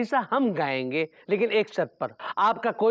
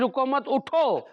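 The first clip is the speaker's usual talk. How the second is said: "रुको मत" as one phrase, break, higher "उठो"; pause after मत; 5 semitones higher, slower than usual. Acted. Son urging father to walk out, pause after मत. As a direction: run "रुको मत" together, then a firm "उठो". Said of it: "हमने आपसे ये कहा कि रुको, मत उठो".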